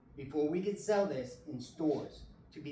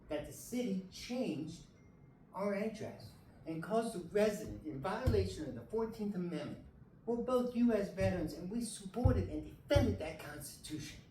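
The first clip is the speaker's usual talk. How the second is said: pushing through real distress, pitch climbing; emotional; 5 semitones higher than usual. Real, not acted. A veteran pleading to the city council, voice high and emotional. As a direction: voice rising high and strained with upset. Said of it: "I'm sorry for myself being so emotional".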